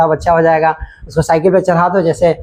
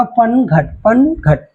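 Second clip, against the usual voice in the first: पनघट said slowly as पन, then घट; broken into syllables; 3 semitones higher, much slower than usual. Shown as a demonstration. Teacher breaking a word for pupils, syllable by syllable. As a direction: split पनघट into two separate beats. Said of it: "अब आप तोड़ के देखो".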